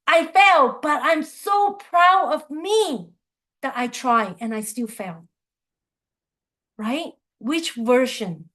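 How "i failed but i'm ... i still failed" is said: proud. Pretend. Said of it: "Or would you say".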